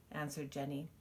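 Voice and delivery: lively storybook reading; reading to children. Acted. Mother reading a picture book to her child, expressive storytelling. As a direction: read it out to little ones, full of wonder.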